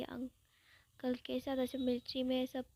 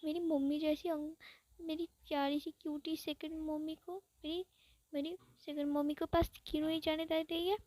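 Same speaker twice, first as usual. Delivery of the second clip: jealous inner whine; 3 semitones higher than usual. Retold or imitated. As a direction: drag it out like a jealous sulking kid. Ibo's jealous inner thoughts.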